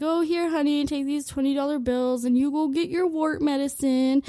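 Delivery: a hint of a doting dad; lazy dad. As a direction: hand it over without getting up. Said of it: "my dad was all laying on the couch, like".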